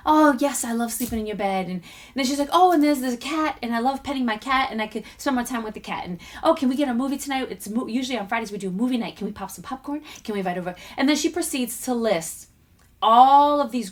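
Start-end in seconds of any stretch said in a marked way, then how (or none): 0.1-10.8 a light imitation of an excited daughter; excited little girl. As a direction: bubble over like a six-year-old. Daughter voiced listing happy things.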